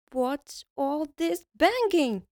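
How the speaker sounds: high, slow questioning elf; a hint of a grumpy elf. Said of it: "asked the elf".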